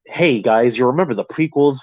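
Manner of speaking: lightly saccharine mock pitch; a touch of put-on, icky friendliness; mock icky sales pitch. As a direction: imitate a transparently eager crowd-pleaser. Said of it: "That sort of icky, transparent vibe".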